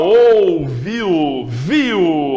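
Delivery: viu with vi strong and u weak; viu, vi leading; diphthong demo. Shown as a demonstration. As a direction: stress vi, let u fade. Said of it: "o vi tá mais forte".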